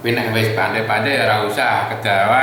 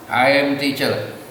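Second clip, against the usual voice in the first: "teacher" cut short with a falling tune; English intonation with a brief, falling "teacher"; short English endings; 3 semitones higher than usual. Shown as a demonstration. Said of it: "pendek-pendek, keras orang Inggris".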